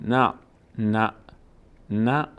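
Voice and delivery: "نه" said as "na‘", cut short on ayn; vowelless عین. Shown as a demonstration. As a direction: stop "نه" in the throat with no vowel after. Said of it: "ساکن رو هیچ وقت حرکت نمیدیم". («نَع» با عینِ ساکن)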